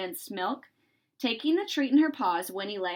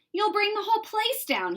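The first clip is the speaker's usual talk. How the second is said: with a laugh; 11 semitones higher than usual. Acted. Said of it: "he said with a laugh".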